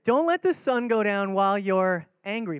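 the scripture hammered out loud; emphatic exhortation. Shown as a demonstration. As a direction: drive the verse home. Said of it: "repeats the scripture as exhortation".

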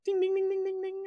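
high sung ding ding like a shop bell; bell ding imitation. Narrator mimics shop bell as door opens, high chime.

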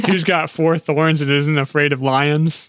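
slow, loud riddle-teller voice. Pretend. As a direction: pose the riddle with mock gravity. Riddle told in mock dramatic way.

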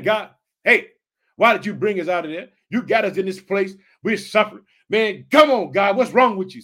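loud, whining protest at God; complaining shout. Retold or imitated. Israelites griping to God in the desert, loud and indignant. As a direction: throw the grievance at God, loud.

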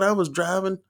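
high-pitched mock sermon cry; preacher in full flow. Preacher telling church about his drive, mock preaching. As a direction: imitate a preacher's chanting lift. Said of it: "It got real calm".

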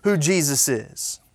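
loud, high shouting friend; booming, high confident shout; Jimbo's loud voice. Retold or imitated. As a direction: shout it proudly, like a loud buddy who knows his Sunday school. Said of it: "He's, he's, he's a little loud".

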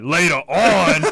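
slow, laughing, drawn-out line; slow drawn-out Fred quote. Retold or imitated. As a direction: stretch it out while laughing. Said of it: "I was like".

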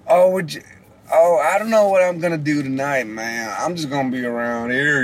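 put-on lazy, easygoing West Coast accent; laid-back West Coast. Imitating the laid-back West Coast, a lazy West Coast accent. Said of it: "like the West Coast".

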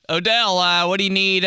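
eager staffer. Retold or imitated. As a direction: ask like an overeager assistant. Training staff voiced.

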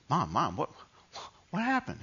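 lightly voiced worried child, high at the end; little kid. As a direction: imitate a child asking mom, rising high. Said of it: "I was just a little kid".

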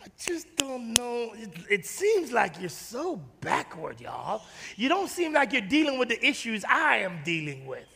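quiet quote. Retold or imitated. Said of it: "oftentimes they say".

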